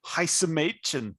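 heiße Mädchen said slowly in German; German pronunciation. Shown as a demonstration. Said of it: "in German, that's".

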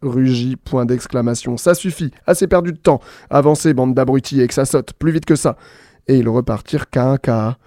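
bright storyteller reading with voiced punctuation marks; lively story reading. A narrator's reading. A radio host reads the punctuation story aloud, lively. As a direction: read the tale playfully to listeners.

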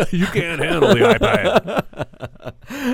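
loud, high, drawn-out parody yell; mock movie shout. Co-host topping the quoted film line, hammed-up shouting. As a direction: bellow it slowly as a hammed-up film comeback.

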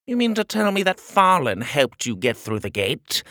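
high, incredulous royal voice; disbelieving little tyrant; pompous shrill tyrant. Acted. King voice held.

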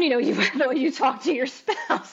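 high-pitched upset outburst; angry. Retold or imitated. Retold tearful outburst at husband.

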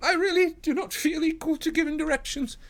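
high, loud, nervous little man; pleading. A narrator's reading. Sholto begs Holmes to take over, high pleading voice. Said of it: "pleaded Thaddeus Sholto".

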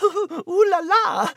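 French ooh la la. Acted. French cat delighting.

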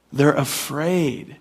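"They're afraid." stretched out slowly, each word weighed; slow it right down on "They're afraid."; slow, emphatic. Shown as a demonstration.

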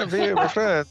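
put-on Italian accent. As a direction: play an Italian speaker introducing himself. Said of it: "com aquele sotaque italiano".

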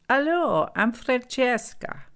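put-on high, loud Italian-accented greeting; thick Italian accent. A narrator's reading. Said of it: "in a thick Italian accent".

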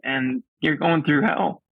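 real tears held back as he talks; getting emotional. Real, not acted. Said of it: "I'm gonna get emotional".

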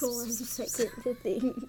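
soft whisper. Real, not acted. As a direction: whisper it close. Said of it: "Just whisper at my ear".

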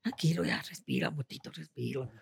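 low hushed soothing; mock soothing hush; soft calming. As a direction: soothe him to breathe. Friends calming him down.

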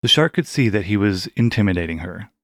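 ordinary delivery

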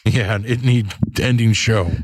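slow broken-English orc grunt; a dim orc worker answering; orc peon voice. Pretend. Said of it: "Zug Zug".

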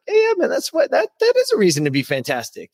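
pep yourself up, high and eager; excited self-talk. Retold or imitated. Host acting out cheering himself up, excited.

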